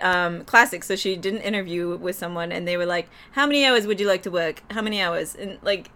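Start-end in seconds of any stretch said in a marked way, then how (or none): 3.3-5.4 lightly imitated Boston accent. Interviewer asking about work hours, Boston accent. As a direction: drop the r's like a Bostonian. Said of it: "in the Boston accent".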